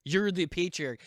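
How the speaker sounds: loud, slow, drawn-out cry of patriarchy; accusing shout. Retold or imitated. Mocking the ad's woman, shouting at the man. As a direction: bellow the accusation, stretching it out.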